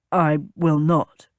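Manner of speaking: low, slow refusal; refusing captain. A narrator's reading. Captain refusing to use his lady's name, firm.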